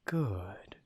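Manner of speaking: comforting. A narrator's reading. Wolf reassures the frightened captive, oddly comforting. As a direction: soothe with a soft, breath-led first word. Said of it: "His voice is oddly comforting".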